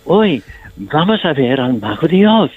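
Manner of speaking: lightly played innocent scarecrow; with innocence. Shown as a demonstration. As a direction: say it with simple childlike wonder. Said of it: "si tú dices con inocencia".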